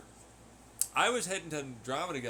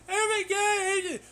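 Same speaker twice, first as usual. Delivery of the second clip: much higher, slow, drawn-out groan of disbelief; mock exasperation; 7 dB louder, slower than usual. Hearing the moon noise everywhere, mock exasperated wail. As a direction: stretch it out in fake horror.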